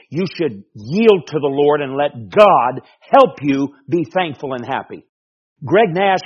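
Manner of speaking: scolding that builds to a loud, high shout; stern self-rebuke. Acted. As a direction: preach at yourself, building to full force. Acts out scolding himself.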